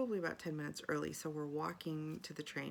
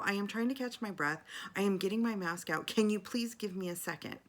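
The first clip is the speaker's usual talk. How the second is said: raised, insistent retelling of a retort; exasperated retort; 4 semitones higher, 4 dB louder than usual. Retold or imitated. Passenger finally answering conductor, exasperated retold retort. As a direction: plead firmly, fed up and louder.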